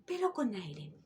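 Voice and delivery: soft, high, airy whisper. Shown as a demonstration. Teacher demonstrating a soft, high whispered voice. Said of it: "con una voz susurrada arribita".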